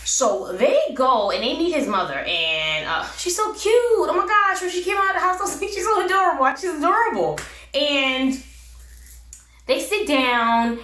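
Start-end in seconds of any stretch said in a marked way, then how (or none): 3.2-7.4 high-pitched cooing over someone adorable; gushing. Real, not acted. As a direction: gush like she's the cutest thing. Gushing over his cute mother.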